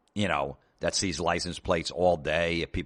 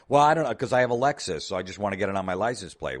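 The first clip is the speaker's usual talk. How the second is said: whiny customer; 3 semitones higher, 4 dB louder, faster than usual. Retold or imitated. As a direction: rattle it off like a clueless customer. Customer answers, quoted.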